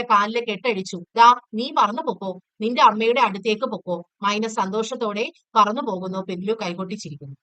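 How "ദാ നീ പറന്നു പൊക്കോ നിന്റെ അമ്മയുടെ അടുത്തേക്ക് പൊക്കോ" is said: louder, a touch of brave cheer; boy freeing a bird, lightly voiced with bold cheer; bold, encouraging. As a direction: set the bird free with a bold push. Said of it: "ധൈര്യത്തോടെ".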